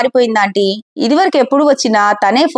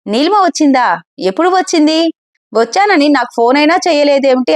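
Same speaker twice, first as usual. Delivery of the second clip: higher-pitched, mildly surprised questions; surprised questioning; 4 semitones higher than usual. Acted. Friend learning that Neelima has come, mildly surprised. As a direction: ask with a touch of surprise, pitch lifted. Friend hears unexpected news of arrival.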